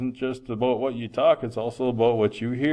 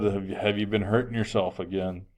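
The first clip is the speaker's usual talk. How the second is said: soft, serious and concerned, much softer; gentle quiet question; 2 semitones lower, 6 dB quieter than usual. Retold or imitated. Teacher quietly asks a student if he's self-harming. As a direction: ask it quietly, carefully, like you fear the answer.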